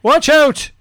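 put-on high, loud kid warning; called over shoulder. Boy warning others as he nearly falls, high shout. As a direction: yell it back in a boy's pitch. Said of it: "he called over his shoulder".

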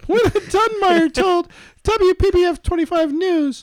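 lightly voiced British man, slow; a hint of a camp British newsreader; British gay man. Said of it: "You sound like a British gay man".

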